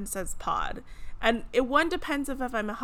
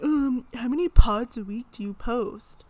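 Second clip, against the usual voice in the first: mock asker; 2 semitones higher, 7 dB louder than usual. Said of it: "I had someone ask me".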